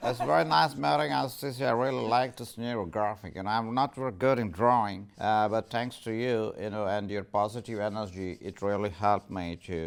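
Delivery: a hint of a put-on Texan accent, softening toward the end. The speaker in his Texan accent praises the neurographics lesson, lightly voiced Texan accent. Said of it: "that is my Texan accent".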